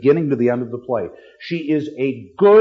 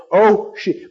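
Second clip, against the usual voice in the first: stunned reaction; 6 semitones higher, 4 dB louder than usual. Acted. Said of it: "the reaction and what caused it".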